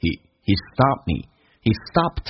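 he 弱读降调; slow reduced he. Shown as a demonstration. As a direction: drag out "he stopped" slowly, he unstressed. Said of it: "降调".

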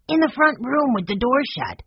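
put-on high child's voice; high-pitched boyish answer; boy reporting. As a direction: tell big brother as an eager little boy. Young boy reports to older brother.

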